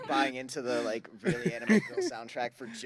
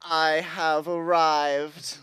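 grand announcement; 2 semitones higher, 4 dB louder, much slower than usual. Acted. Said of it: "says openly and loudly".

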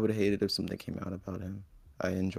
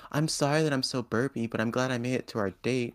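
sultry paid video voice; 3 semitones higher, 4 dB louder than usual. Retold or imitated. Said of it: "sounds like it could be, a paid video".

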